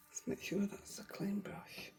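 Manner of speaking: slow whispered aside; whispering. Real, not acted. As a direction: whisper it slowly to yourself. Aside while rinsing brush.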